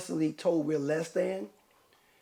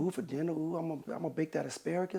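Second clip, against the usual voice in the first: quiet dreamy craving; 5 dB quieter, faster than usual. Retold or imitated. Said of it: "a woman is eating breakfast".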